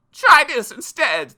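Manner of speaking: slow, loud, high retort; drawn-out princely shout; yelled. A narrator's reading. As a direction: yell it back as a fierce prince. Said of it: "the prince yelled back".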